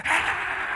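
airy, high imitated crowd roar; crowd cheer. Crowd reacting to a skater landing, imitated cheer. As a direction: imitate a crowd's "ahh" softly. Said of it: "the crowd goes".

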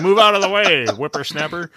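lightly voiced grumpy old-timer; a hint of a cranky old man shooing kids; old prospector. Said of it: "Jump you, old man".

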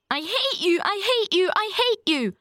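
high-pitched, furious repeated cry; child in a mounting tantrum; hateful outburst. A narrator's reading. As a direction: hurl each hate like a stamp of the foot. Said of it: "with each assertion of hatred".

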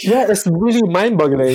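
laughing. Real, not acted. Still laughing, agreeing.

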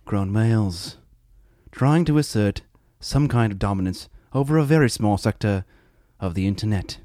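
lightly voiced David Attenborough send-up; a hint of a hushed wildlife narrator; mock documentary narrator. Mock nature documentary intro.

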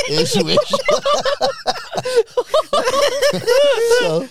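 high laughing through the words. Real, not acted. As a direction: giggle it out.

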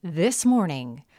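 slow news anchor read. Shown as a demonstration. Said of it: "my anchor voice also kicks in".

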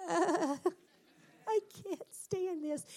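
half-laughing, slow, exasperated groan at the whining. Retold or imitated. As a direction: laugh it off, fed up. Parent exasperated by whining child.

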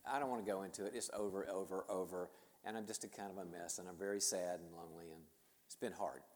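low, soft and downcast; a quietly dejected quote, pitch kept low; subdued retold heartbreak. Young woman confides her breakup to a family friend, subdued.

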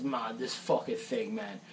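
imitating Roy. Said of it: "he goes".

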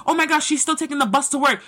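quick, snide mimicry of a gossiping neighbour; lightly mocked gossip voice; mocking gossip. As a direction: rattle it off like a nosy busybody. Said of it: "people who may be mocking you".

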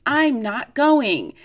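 a light imitation of the Grinch, high then slowing; hint of a sulky Grinch giving up, drawn out; Grinch impression. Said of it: "Jim Carrey is like".

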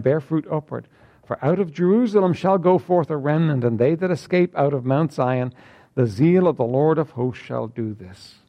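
measured King James reading; solemn scripture reading to the congregation. Acted. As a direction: read the verses out with weight. Reads scripture aloud.

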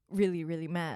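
a hint of a deep bully voice. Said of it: "go deep voice just now?".

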